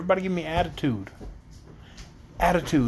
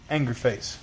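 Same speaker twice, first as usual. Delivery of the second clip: low, softer, pretend-stern aside; mock anger; 4 semitones lower, 4 dB quieter than usual. Munchkin didn't follow the instruction, mock anger. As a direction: play angry with a low, falling pitch. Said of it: "this is my anger face".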